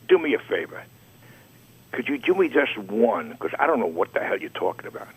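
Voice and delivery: lightly imitated Southern editor; imitated Southern accent. Editor asking the adman for just one cover, light Southern accent. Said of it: "with a Southern accent".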